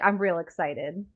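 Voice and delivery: real said for really, slow; dropping the y. Shown as a demonstration. Showing friends how she drops the y, slow. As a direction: say real in place of really, drawn out. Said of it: "dropping the Y in really".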